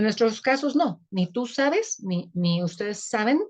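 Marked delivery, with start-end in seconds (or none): 1.3-2.0 "sabes" stressed on "SA", higher pitched; stress on first syllable. Shown as a demonstration. Teacher explains the accent rule, "sabes" stressed on "sa". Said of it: "el énfasis está en sa". 2.6-3.4 "saben" stressed on "SA"; stress on first syllable. Shown as a demonstration. Teacher explains the accent rule, "saben" stressed on "sa". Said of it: "el énfasis está en sa".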